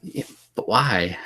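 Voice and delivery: hushed aside in a whisper. Real, not acted. Whispering to his movie co-host. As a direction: whisper the question, slowly.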